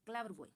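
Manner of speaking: क्लेवर बॉय starting on a k sound; क्लेवर begun with a plain k; pronunciation model. Shown as a demonstration. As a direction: model क्लेवर बॉय for learners, k-l run together. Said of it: "इसको ऐसे बोलेंगे".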